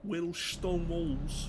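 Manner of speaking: high, slow put-on Welsh lilt; failed Welsh accent. Player retrying on the stone walls, in a badly faked Welsh accent. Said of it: "Can't do a Welsh accent".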